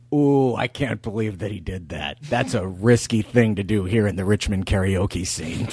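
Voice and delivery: lightly voiced karaoke regular, pitched low; low, mock-solemn commentary; mock-serious karaoke devotee. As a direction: play a gravely serious karaoke insider. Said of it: "this guy's serious".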